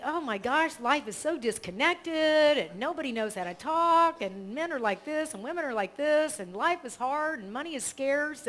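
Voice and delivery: high, whiny mock lament; a hint of a grumbling pessimist; mock complaining. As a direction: lightly send up the gloomy worrier. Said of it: "how many of us think".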